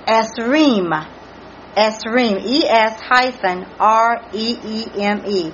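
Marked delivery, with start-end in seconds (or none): 0.1-2.4 "Esreem" said slowly with a long, stressed "reem"; "Esreem" as a careful attempt at Hebrew; careful Hebrew pronunciation. Shown as a demonstration. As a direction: sound out "Esreem", leaning on the second syllable. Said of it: "try to pronounce these Hebrew words".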